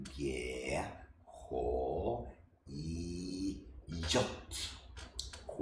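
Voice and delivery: each letter said slowly and apart in Norwegian; Norwegian alphabet recited. Shown as a demonstration. Teacher recites the alphabet for learners, slow and clear. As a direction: spell out A, B, C one by one as a teacher. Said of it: "we're gonna say it from the beginning".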